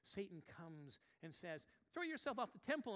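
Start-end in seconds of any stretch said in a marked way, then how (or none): 1.9-2.9 mock tempter. Satan's tempting line voiced.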